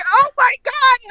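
high, slow mock panic; inner panic. Freaking out internally about the long flight, high mock panic. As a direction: let the dread stretch out. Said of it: "like, in my head".

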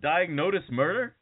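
Diagnosis said with a T-like sound, "diag-NOTE-is"; mispronounced title. Retold or imitated. Puzzled guest garbling his own credit, Diagnosis as "diag-NODE-is". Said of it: "he also pronounced it Diagnosis".

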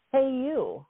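a high call of hey, you across the room. Retold or imitated. Presenter singles her out in the audience, calling out high.

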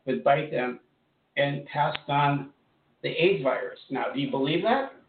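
talking while crunching a throat lozenge; words around a crunching lozenge. Real, not acted. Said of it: "Excuse me, I'm crunching".

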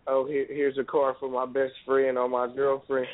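low, slow mock boast; mocking showoff. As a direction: sneer like a flashy big spender. Mocking showoffs buying friends cars.

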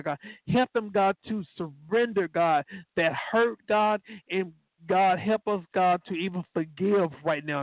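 earnest spoken prayer, rolling phrase after phrase; heartfelt intercession, each phrase rising then falling away; fervent prayer. Real, not acted. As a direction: plead with God, punctuating phrases with His name. Leads the congregation in prayer.

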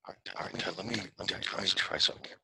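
muffled, fading out; call dropping out. Real, not acted. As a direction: voice cutting out on the line. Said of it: "Now you're mute".

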